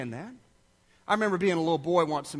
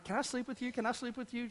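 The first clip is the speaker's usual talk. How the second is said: put-on soft, higher little-girl plea; imitated pleading child; 4 semitones higher, 10 dB quieter, faster than usual. Little girl afraid of the storm asks parents, mild pleading. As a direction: lightly mimic a scared child begging, no real sobs. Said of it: "she's crying".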